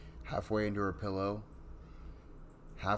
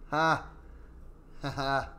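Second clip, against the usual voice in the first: real laugh; 5 semitones higher, slower than usual. Real, not acted. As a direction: crack up at the punchline. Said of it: "That's funny".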